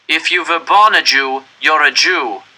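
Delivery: cold officer. Acted. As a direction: shut him down coldly. SS officer rejects plea.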